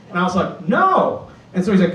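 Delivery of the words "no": put-on high kid squeak.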